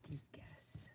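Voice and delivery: whispered teasing dare. Shown as a demonstration. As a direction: breathe it as a sly secret. Teasing repeat of quiz question.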